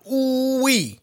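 slow, drawn-out hype; hyped exclamation. Real, not acted. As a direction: savor the moment. Hyped about punch.

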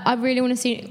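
a bit of a Cockney accent, said quickly; slipped into Cockney. Real, not acted. Guest naming the musical she wants, slipping into Cockney. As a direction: let a casual Cockney accent slip into the words. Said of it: "that was a bit Cockney".

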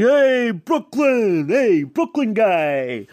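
drawn-out, high slurred hail; high start, sliding down, every word dragged; impression of a singer. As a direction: mimic a sloppy shout of greeting, stretched slow. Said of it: "And he's like".

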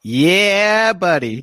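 high, loud whoop; big high-pitched celebration; excited cheer. Acted. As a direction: cheer loudly for the winner. Cheering the announced winner.

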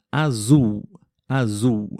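azul with the L said as U, azuu; final L as U. Shown as a demonstration. Teacher demonstrates azul to learners, final L as U. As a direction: model azul with a long U ending. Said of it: "como se tivessem duas letras Us".

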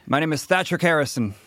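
lightly voiced proud knight; knightly persona. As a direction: declare it like a knight. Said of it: "when I hold my helmet and my shield".

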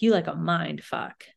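slow, lightly put-on British voice; a half-hearted go at a raunchy British astrologer; bad raunchy British voice. Podcaster imitating a British astrologer, bad raunchy British voice. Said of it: "Why are you giving her this voice?".

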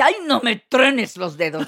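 hammed-up grande dame scolding the director; mocking the lady. A touchy actress complaining to the director, mock indignant. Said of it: "le decía".

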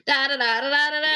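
rhythmic nonsense-syllable Derry accent; singsong demo of a Derry accent. Shown as a demonstration. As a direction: tap out the Derry lilt on da-da. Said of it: "That's not how you do all your lines".

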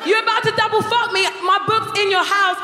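high, accusing rant; retold outburst. Comic yelling at the guy who hid their past, high and accusing. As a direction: tell him off hard.

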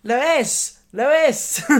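high, loud nagging cartoon baby; Stewie Griffin. Guest copies a clip calling mother, loud cartoon baby. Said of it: "All right, let me try".

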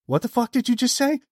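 high mock-stunned outburst; stunned disbelief. Musician hearing fan knows his pseudonym, stunned and high. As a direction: play his jaw-drop double take.

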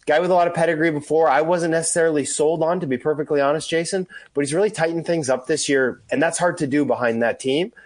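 hoarse from being sick; rough, under-the-weather voice; gravelly voice. Real, not acted. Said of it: "bearing with the gravelly voice here today".

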